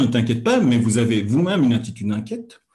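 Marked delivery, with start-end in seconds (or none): 0.0-0.6 a louder, worried "Ne t'inquiète pas"; hammed-up anxious reassurance; mock anxious. Shown as a demonstration. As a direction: fake the nerves while reassuring. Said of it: "une voix un peu frissonnante et apeurée".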